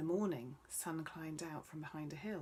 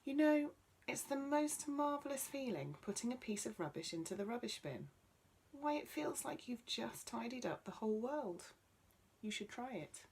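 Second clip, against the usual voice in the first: enthusiastic; 6 semitones higher than usual. Acted. Tree enthuses about tidying.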